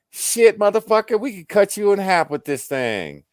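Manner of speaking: high, loud, mock outrage; loud, high-pitched hollering; retold yell. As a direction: yell it indignantly at a bear that won't move. Retold shouting at a bear.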